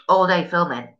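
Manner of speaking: misreads 'all day filming' as the wrong word; misreading. Shown as a demonstration. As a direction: slip of the tongue on 'filming', said plainly. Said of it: "No, all day feeling shit".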